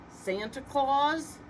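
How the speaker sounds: high, slow sneering question; mocking. A narrator's reading. Rump mocking Santa, high and slow. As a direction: drag it out in scorn. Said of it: "Rump fumed".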